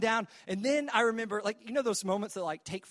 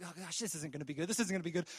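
quiet dread; 4 semitones lower, 9 dB quieter, faster than usual. Retold or imitated. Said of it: "And I was like".

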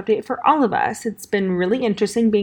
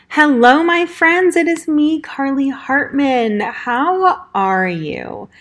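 excited greeting; 5 semitones higher, 4 dB louder, slower than usual. Real, not acted. Big cheery show opening.

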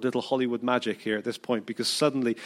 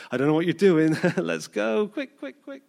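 excited hurry; 5 semitones higher than usual. Retold or imitated. Preacher voicing Zacchaeus hurrying away from the crowd, excited. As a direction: rush him off with a laugh, quick quick. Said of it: "just imagine him".

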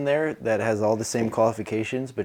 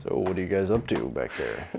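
chatty pilot; 7 semitones lower, 5 dB quieter than usual. Acted. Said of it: "keeps making small talk over the speaker".

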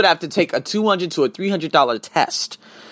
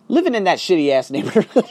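laughing; 3 semitones higher than usual. Real, not acted. Laughing about old neighborhood.

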